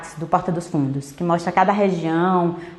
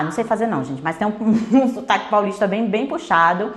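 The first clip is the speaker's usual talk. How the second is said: ordinary talk, nothing marked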